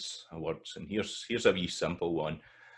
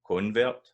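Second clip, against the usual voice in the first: Convert punched on "Con", higher and louder; stress on first syllable; 4 semitones higher, 6 dB louder than usual. Shown as a demonstration. Teacher repeating the noun, Convert stressed at the start. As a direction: hit the first syllable of Convert, tune rising. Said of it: "the stress is in the, at the start".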